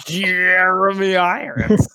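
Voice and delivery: slow, far-off mock drawl; mock posh voice. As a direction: ham up the villain accent. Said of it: "mocking her Veidt voice".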